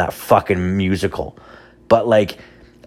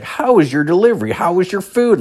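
high, fast mock app voice; app prompt voice; 11 semitones higher than usual. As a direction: imitate a cheery delivery app. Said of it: "skip the dishes".

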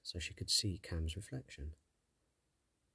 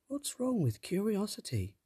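put-on higher, questioning girl; young girl voice; 13 semitones higher than usual. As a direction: ask it innocently. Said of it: "Tess asked".

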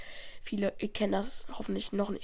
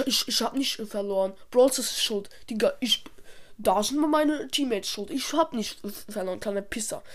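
sore loser; 3 dB louder than usual. Acted. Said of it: "Der schlechte Verlierer".

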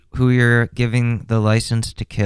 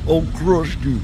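meathead voice; 8 semitones higher than usual. Retold or imitated. Mocking the juicer again.

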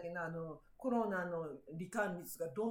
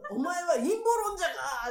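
louder stammered accusation; accusing husband; 7 semitones higher, 7 dB louder than usual. Retold or imitated. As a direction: bluster the accusation at her. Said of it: "って言ってきたから".

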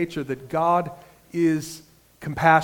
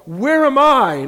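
loud, slow, higher where am I; searching question; 8 semitones higher, 8 dB louder, slower than usual. Retold or imitated. Preacher asking himself where he stands, slow and loud. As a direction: stress I, drawn out, questioning. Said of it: "thinking to myself the question".

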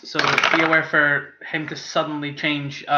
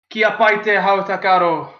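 put-on slurred, louder drunk Dwarvish; Dwarvish phrase; 4 semitones higher, 4 dB louder than usual. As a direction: slur the Dwarvish words. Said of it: "he says something in Dwarvish".

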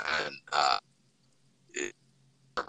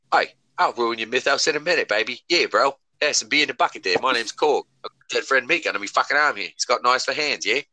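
Tiki Barber voice; 5 semitones higher than usual. Retold or imitated. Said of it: "let me do it in his voice".

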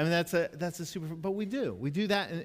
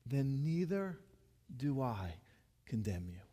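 tender quote; 3 dB quieter than usual. Acted.

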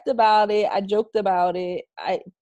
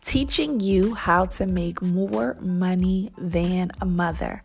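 measured, clearly delivered promo read; sponsor ad read. Acted. Host invites mompreneurs to join Mother Hustler University, ad read. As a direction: pitch the program like a podcast sponsor spot.

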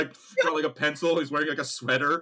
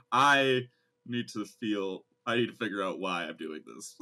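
mock self-searching Frank; 7 semitones lower than usual. Voicing Frank's self-reflection.

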